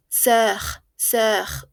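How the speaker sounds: Sœur with one rounded vowel between o and e. Shown as a demonstration. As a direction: model Sœur slowly as an o-e blend. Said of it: "es como una O".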